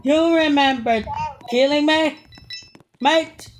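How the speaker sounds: high, drawn-out challenge; confronting. Real, not acted. Player confronting his killer, high drawn-out challenge.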